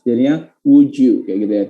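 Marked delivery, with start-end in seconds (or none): 0.7-1.2 slow, linked "would you" as "wu-jew"; word connection. Shown as a demonstration. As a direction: draw out the j joining "would you". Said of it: "Karena dia di word connectionin".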